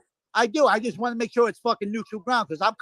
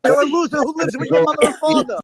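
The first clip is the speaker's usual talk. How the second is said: angry; 5 semitones higher, 4 dB louder than usual. Real, not acted. Heated insult in argument.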